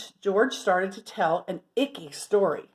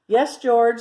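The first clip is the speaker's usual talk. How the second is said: Martha impatient; 3 semitones higher, 8 dB louder than usual. Acted. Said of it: "said Martha".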